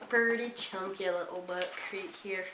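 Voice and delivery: weird accent drifting toward Irish; accidental Irish-like accent. Real, not acted. Vlogger describing a huge book to viewers, accidental Irish-like accent. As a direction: slip oddly into a vaguely Irish lilt. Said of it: "that was a weird accent".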